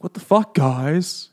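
hammed-up indignation at his friends; mock indignant. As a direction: whine it at the friends who tricked him. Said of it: "and he's like".

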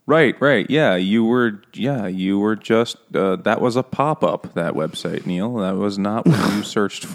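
sarcastically playing along with an excuse; mock belief. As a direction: pretend to believe a feeble excuse, loudly. Teasing mock exchange with absent Neil.

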